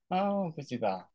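a tentative, hesitant 不知道; light mock-doubtful 不知道; unsure. Shown as a demonstration. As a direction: sound like you're not really sure. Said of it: "you don't sound like you're not really sure".

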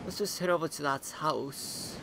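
put-on a lightly done Australian accent for the new guy character; casual Australian accent chatting to viewers. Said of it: "I don't know why I've been given, uh, an Australian accent".

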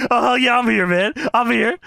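high, excited wrestler impression; Booker T. Retelling the funny backstage answer, high excited impression. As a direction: holler it high, hamming up the champ. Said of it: "And he says".

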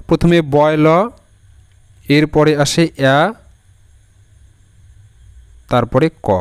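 "বয় ল", "অ্যা", "ক" as separate sounds with long gaps; sounding out. Shown as a demonstration. Teacher breaks down a word for learners, sounding out slowly. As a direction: break it into "বয় ল", "অ্যা", "ক", pausing between each. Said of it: "যদি এভাবে ধরো".

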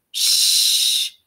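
a sharp unvoiced shh; shushing. A narrator's reading. Class hushing a classmate, sharp shh. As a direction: hush him quickly.

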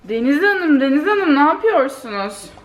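calling out. Real, not acted. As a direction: call her name playfully. Calling out to Deniz in the kitchen.

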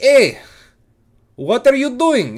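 loud, high bark from the boss; a retold boss shouting at a late worker; mock boss yell. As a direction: call him out loudly like an angry boss.

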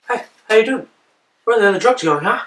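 chatty lifted greeting rolling into the question; wiseguy voice. Acted. Auditioning voices for a friend, casual wiseguy voice.

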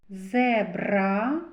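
зебра with a long rolled r; stressed r sound. Shown as a demonstration. Teacher picking out a consonant, rolled r in зебра. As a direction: roll and hold the r in зебра. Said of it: "Р твердий приголосний".

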